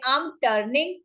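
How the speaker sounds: drawn-out teaching delivery; slow demo phrase; slow model phrase. Shown as a demonstration. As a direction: stretch it so learners can follow. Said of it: "उसके लिए आप क्या बोलेंगे".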